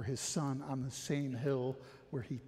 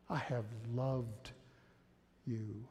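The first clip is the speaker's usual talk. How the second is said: tender slow reading; slower than usual. Shown as a demonstration. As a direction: say it gently, as God speaking to you. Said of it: "hear God's voice here".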